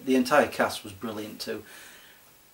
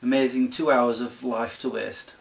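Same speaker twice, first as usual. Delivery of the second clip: usual speaking voice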